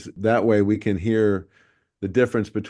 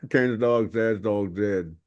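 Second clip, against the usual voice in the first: Texas accent; slower than usual. Shown as a demonstration. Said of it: "You're moving your jaw too much".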